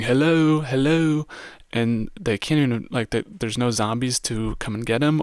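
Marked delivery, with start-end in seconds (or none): 0.0-1.3 higher, louder imitated calls; a lighter mock yell; half-hearted imitation of screaming. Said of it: "just screaming".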